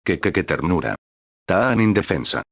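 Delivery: lightly voiced smitten stammer; fascinated. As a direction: lose your words over the photo. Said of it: "exclamó fascinado".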